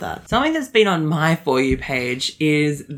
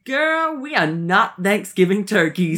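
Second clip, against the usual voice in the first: sassy retort; 4 semitones higher than usual. Retold or imitated. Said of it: "the girl stitched a video and was like".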